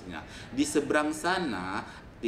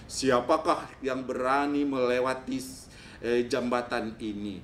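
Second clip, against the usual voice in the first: loud, raised giant voice; challenging giant; 4 semitones higher, 5 dB louder than usual. Acted. Giant challenges the goat on his bridge, loud raised voice. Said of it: "kata si raksasa itu kepada kambing".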